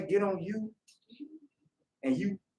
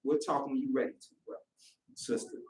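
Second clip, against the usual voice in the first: calm reply. Retold or imitated. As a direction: soothe a brother who ignored you. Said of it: "a man with peace is like".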